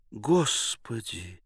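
exclaiming. Acted. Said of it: "воскликнула Елена".

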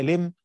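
لم stopped on a bare m with no h; plain stop, no ha. Shown as a demonstration. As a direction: end لم cleanly on the m. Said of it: "هيقول عليها". (الوقف على "لم" بالميم الساكنة بلا هاء)

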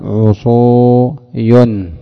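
عصوي stretched out slowly, falling at the end; slow demo. Shown as a demonstration. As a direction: draw out عصوي slowly for students. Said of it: "فتبدل الواو حينئذ ياء".

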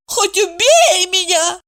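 high, slow mocking echo of Хоть убей меня; mocking mimicry. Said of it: "Евдокия передразнила подругу". (передразнивая подругу, выше и медленнее)

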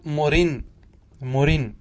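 slow مرن said murin; ya dropped, tanween. Shown as a demonstration. Teacher shows the final derived form, slow murin. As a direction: end مرن on a short i and held n. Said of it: "تحذف".

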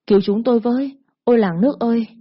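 put-on a frightened boy yelling for the neighbours to come; shouting for help. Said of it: "mà hét lớn". (hét lớn kêu cứu)

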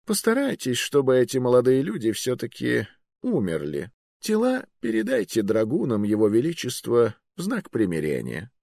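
high, casual order to kill; calm old magister. Acted. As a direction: order death lightly, as a wizard.

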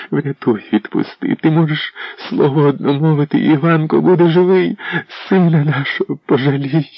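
mother imploring the prince to spare their son; desperate begging. A narrator's reading. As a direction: beg on her knees. Mother begging at his feet.

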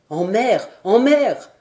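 urgent cry of a fleeing man; exclaimed. A narrator's reading. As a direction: call it out to the rowers. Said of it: "s'écria-t-il".

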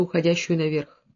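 ordinary delivery, nothing marked

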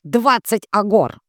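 slow, loud, with a sly grin; spring the price with a grin; nasty grin. A narrator's reading. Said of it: "с нехорошей улыбкой".

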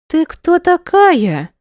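high, slow, loud hostile demand. Acted. Mother confronting the woman holding her child, hostile. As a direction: demand it with contempt.

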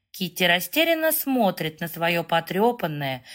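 plain reading voice

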